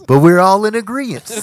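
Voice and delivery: high mock voice. Mocking echo.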